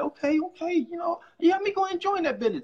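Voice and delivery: convinced viewer. Retold or imitated. A viewer won over by a passionate speaker, eagerly convinced. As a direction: sound sold on the pitch, rising excitement. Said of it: "they're gonna be like".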